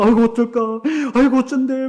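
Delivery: imitating impatient worry; lightly acted fretful lament; anxious fretting. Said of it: "막 이러면서 조급하면서".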